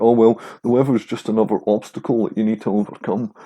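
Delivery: light West Glasgow accent, mocking parkour types; a hint of West Glasgow accent, Kevin Bridges style, teasing. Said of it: "this fucking Kevin Bridges, um, West Glasgow accent".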